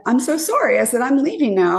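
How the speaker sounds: high-pitched retold apology; flustered rebuff. Woman pushing away her date's kiss, flustered apology. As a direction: imitate a hurried, apologetic brush-off.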